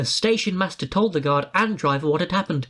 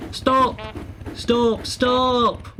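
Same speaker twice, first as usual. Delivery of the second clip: high, pleading cries of stop; wailing; 6 semitones higher, much slower than usual. A narrator's reading. Bus wailing after the train, high calls of stop. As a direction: wail after the departing train. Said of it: "wailed Bertie".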